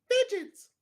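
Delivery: hammed-up masked vigilante impression; Pattinson's Batman voice. Co-host showing friend how to say it right, Batman impression. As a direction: put on the brooding movie-hero voice. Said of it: "You gotta say it in Pattinson's voice".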